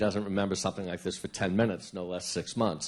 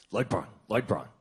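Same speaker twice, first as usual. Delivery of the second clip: mocking catchphrase. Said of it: "It's, it's him sort of".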